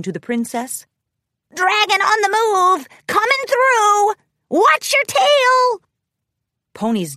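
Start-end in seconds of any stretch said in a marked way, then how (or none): 1.5-5.8 high, loud warning shout; slow, stretched crowd-clearing call. A narrator's reading. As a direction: clear the way with a loud, rising holler. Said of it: "he called out".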